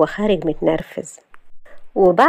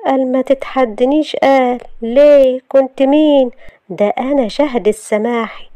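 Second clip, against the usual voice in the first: higher, mocking echo of his warning; scoffing self-talk; 6 semitones higher, 3 dB louder, slower than usual. A narrator's reading. Shahd alone mimicking Youssef's threat, scornful and higher. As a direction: scoff and boast, stretching the last words. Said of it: "وقالت لنفسها".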